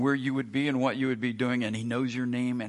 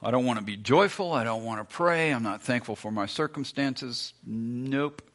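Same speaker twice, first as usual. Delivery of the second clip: stubborn refusal; 4 dB louder than usual. Retold or imitated. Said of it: "and you go".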